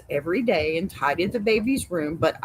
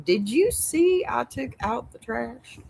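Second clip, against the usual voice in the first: higher-pitched imitation of a husband fishing for praise; mock bragging husband; 6 semitones higher than usual. Mocking a husband who wants thanks for one chore, mock bragging. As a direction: pop up high, begging for applause. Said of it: "popping up like".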